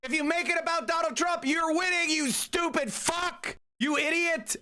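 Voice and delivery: high, angry yelling at the opponents; furious high-pitched rant. Real, not acted. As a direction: yell it in open frustration. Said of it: "I'm yelling because".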